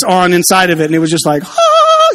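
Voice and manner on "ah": a high, breathy gasp of wonder; awed gasp. Retold or imitated. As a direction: gasp like a kid seeing treasure. Kids amazed by lit cereal case.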